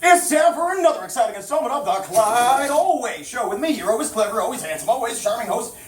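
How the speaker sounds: showman hyping his own show; big emcee build-up; chirpy trade show pitch. Acted. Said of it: "I ain't no common carnival barker".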